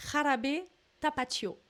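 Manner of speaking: Jarabe Tapatio in a light Mexican Spanish accent, Jarabe with a rasped Spanish j. Shown as a demonstration. Vlogger tries the dance name for viewers in a Mexican Spanish accent. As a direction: attempt the Mexican Spanish pronunciation, rolling it out carefully. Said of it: "je vais essayer de le dire avec l'accent".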